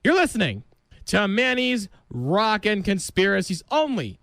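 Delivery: smooth station announcer delivery; radio DJ read. Acted. Host announces the next song on his radio show. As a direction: sell the station ID.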